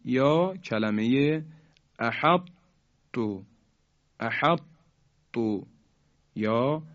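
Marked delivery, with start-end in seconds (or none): 2.0-2.5 احط with a heavy ط held shut, released as light ت; incomplete merging. Shown as a demonstration. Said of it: "اینطور تلفظ کنیم". 4.2-4.6 احط with a heavy held ط, then a light ت release; heavy closure, pause, light ت; incomplete merging. Shown as a demonstration. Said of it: "اینطور تلفظ کنیم".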